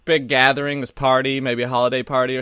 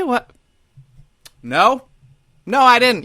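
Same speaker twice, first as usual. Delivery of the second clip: defensive mock protest; 9 semitones higher than usual. Defensive reply to dogs.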